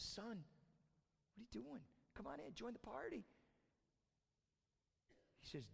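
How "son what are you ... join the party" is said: soft, higher-pitched fatherly appeal; gentle coaxing. Acted. Dad comes out to his angry son, gentle coaxing. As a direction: coax him softly to come along.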